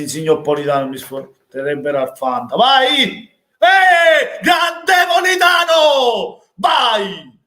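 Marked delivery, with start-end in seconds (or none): 2.6-7.4 very high, loud goal scream; drawn-out ecstatic shout for the scorer; breathless italian goal commentary. Real, not acted. Fan celebrating a goal. (urlo di gioia per il gol)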